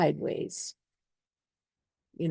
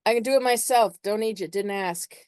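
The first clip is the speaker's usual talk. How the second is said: higher, curt, proud refusal; mock stubborn brush-off, higher; defiant Aries; 5 semitones higher than usual. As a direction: push the helper away sharply. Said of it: "Aries be like".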